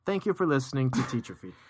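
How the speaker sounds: smooth radio announcer read; polished DJ delivery. Acted. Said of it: "you do your radio voice".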